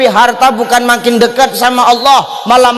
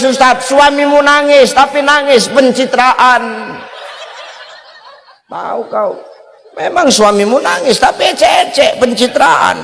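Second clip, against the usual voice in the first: mocking laugh; 5 semitones higher than usual. Mocking fake crying husband.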